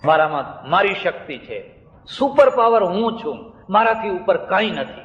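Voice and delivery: a touch of swagger, rising on the boast; boastful challenge. Retold or imitated. The monk boasting of his power to everyone, lightly declaimed. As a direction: proclaim your own power, lightly declaimed. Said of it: "બધાને પડકાર આપે".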